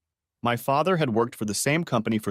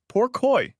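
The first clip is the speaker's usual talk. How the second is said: high, sorrowful sigh of pity; 13 semitones higher, 4 dB louder than usual. A narrator's reading. Mother grieving for her son-in-law, sorrowful. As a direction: grieve for him aloud.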